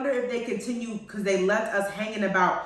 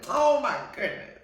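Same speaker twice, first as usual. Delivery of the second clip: ordinary talk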